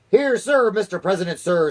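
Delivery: high squeaky spy voice; falsetto voice. A narrator's reading. Chief spy answers the president in falsetto. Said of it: "and a falsetto voice".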